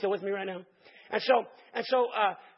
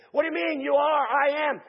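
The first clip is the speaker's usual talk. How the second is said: confused Moses; 7 semitones higher, 7 dB louder than usual. Retold or imitated.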